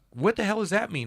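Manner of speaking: high, loud mock bafflement; confused wife. Husband imitating wife's baffled question, high and loud.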